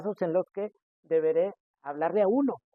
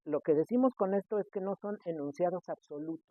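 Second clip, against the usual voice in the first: normal talking voice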